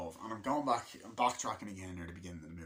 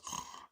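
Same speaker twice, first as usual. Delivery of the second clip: sharp intake of breath; mock startled gasp; imitated gasp; 7 dB quieter than usual. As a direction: gasp as in the film scene. Imitates the film's sudden moment.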